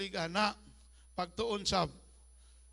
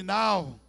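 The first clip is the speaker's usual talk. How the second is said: now punched loud; stress on now; 2 semitones lower, 6 dB louder than usual. Shown as a demonstration. Pastor calling congregation to repeat, now stressed loud. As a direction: hit the word now hard. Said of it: "say it with me".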